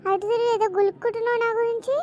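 loud challenging call; confrontational. Acted. Daughter confronts the elder daughter-in-law over her muttering, loud.

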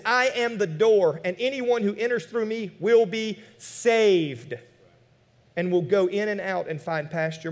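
slow, measured Bible reading; scripture reading. Acted. Preacher reading the promise to his congregation, slow and measured. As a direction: lay out each word of the verse.

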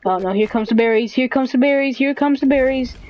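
fretful, hurried game-time alert; mounting alarm. Real, not acted. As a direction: chant the warning in growing panic. Berries coming at him.

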